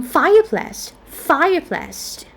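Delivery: "fireplace" stressed on FIRE, place kept light. Shown as a demonstration. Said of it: "first syllable stress".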